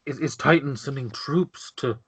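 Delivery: desperate for news, tripping over the question; anxious, stammering lord. Acted. Shaken lord asking paladin about rescue, anxious stammer. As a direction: stumble over repeated words.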